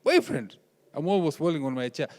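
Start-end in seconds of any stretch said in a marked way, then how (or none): 0.0-0.5 shocked dad. Retold or imitated. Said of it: "I'm like".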